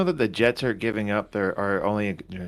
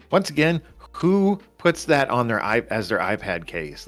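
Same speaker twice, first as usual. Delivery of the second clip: incredulous rant; 3 semitones higher, 4 dB louder than usual. Real, not acted. Ranting about iPad case.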